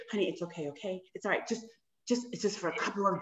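soft, reassuring murmur to a husband; soothing wife. Pretend. Wife telling her annoyed husband it's okay, soothing.

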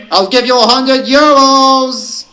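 high, loud yelping shout; yelped taunt. A narrator's reading. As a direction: call it out like an excited wolf. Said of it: "someone yelped".

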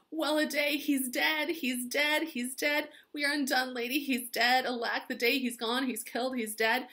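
the nurse lamenting dramatically and loudly; wailing nurse. Acted. Nurse wailing to Juliet about the death, high lament. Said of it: "She just says".

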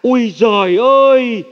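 a hint of a nagging mother's scold; imitating mom scolding. Son imitates his mother scolding him, lightly voiced nag. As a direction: mimic mum's scolding lightly. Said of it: "Mẹ hay mắng con là".

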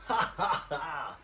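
high laughing ha ha; mock laugh. Shown as a demonstration. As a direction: burst out laughing on purpose. Demonstrating loud laughter.

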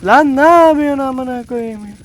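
angry shout. Real, not acted. Gamer cursing the helicopter that won't turn, a loud angry yell. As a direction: snap at the game in real fury.

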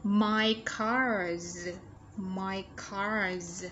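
"cars" drawn out to a buzzing final z; "My cars" with a long, clear z ending; Z ending sound. Shown as a demonstration. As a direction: let the z at the end of "cars" ring. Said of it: "Z ending sound".

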